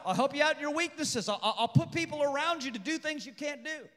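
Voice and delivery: laughing reassurance. Retold or imitated. God reassuring Moses, laughing.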